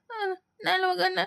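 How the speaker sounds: put-on a scared child agreeing while crying; tearful. Scared boy answers father. (ಅಳುತ್ತಾ ಮೃದುವಾಗಿ)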